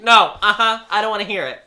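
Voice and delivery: mock refusal. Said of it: "She was like".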